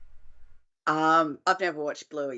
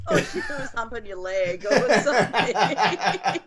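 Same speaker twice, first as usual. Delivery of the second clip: laughing. Real, not acted. Teasing through laughter.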